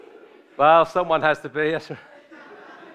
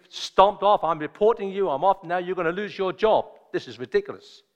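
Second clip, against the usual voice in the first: mildly heated complaint, raised pitch; angry retold rant; 4 semitones higher than usual. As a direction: retell an indignant passenger telling someone off. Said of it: "he was shouting at her".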